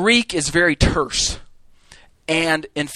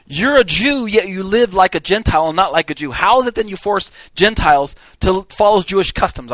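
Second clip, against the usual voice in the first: Paul confronting Peter; 4 semitones higher, 4 dB louder than usual. Retold or imitated. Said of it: "He more or less says".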